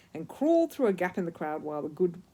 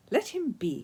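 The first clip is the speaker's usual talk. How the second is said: calling out; 7 semitones higher than usual. A narrator's reading. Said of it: "called a woman somewhere near the back".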